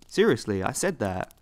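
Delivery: perplexed. Retold or imitated. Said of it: "I asked, perplexed".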